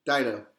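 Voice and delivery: Dido said as DIE-doh; correct pronunciation. Shown as a demonstration. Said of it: "It's not Ditto, it's Dido".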